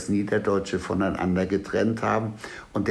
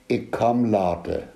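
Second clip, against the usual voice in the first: Plattdeutsch. Shown as a demonstration. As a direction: say "Ich komm later" in Plattdeutsch. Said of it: "Wir sagen auf Plattdeutsch".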